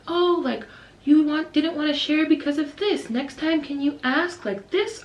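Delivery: lightly voiced patient teacher; understanding teacher. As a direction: coax a child kindly toward better behaviour. Teacher mediating between children.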